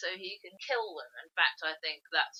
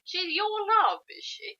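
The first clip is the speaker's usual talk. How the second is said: much higher, louder incredulous question; mock disbelief; 12 semitones higher, 3 dB louder, slower than usual. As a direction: sound baffled by the news. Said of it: "we're going".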